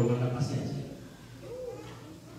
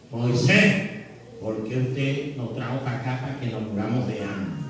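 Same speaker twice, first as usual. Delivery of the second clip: complaining crowd. Acted. The people grumble to Moses, plaintive complaint. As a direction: whine the question to Moses.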